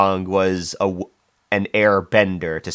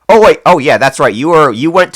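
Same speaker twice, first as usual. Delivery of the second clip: surprised; 7 semitones higher, 8 dB louder than usual. Real, not acted. Sudden realisation mid-chat.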